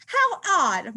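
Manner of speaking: mildly puzzled mouse. Acted. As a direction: wonder aloud. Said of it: "Marvin thinks".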